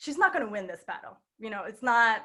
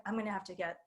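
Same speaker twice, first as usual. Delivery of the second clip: put-on hushed older student; 5 semitones lower, 10 dB quieter, faster than usual. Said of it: "she was like".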